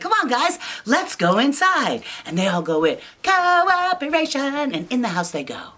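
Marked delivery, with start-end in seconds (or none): 0.0-2.0 high pig voice. Acted. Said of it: "Peggy's like". 3.2-4.7 drawn-out high cooperation. Acted. Kids' storyteller drawing out Cooperation.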